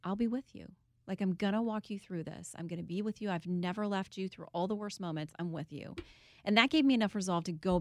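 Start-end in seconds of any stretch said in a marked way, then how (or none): 0.0-5.9 soft, tender reassurance that grows quieter; softly voicing God's reassurance; gentle reassuring voice of God. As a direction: speak it like a calm promise of comfort. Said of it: "feeling that he said to me".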